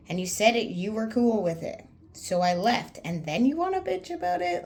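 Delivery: loud, rising anger, pitch climbing high; angry rant. Retold or imitated. Scolding a sulking friend, loud angry rant. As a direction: let the fury build to the last question.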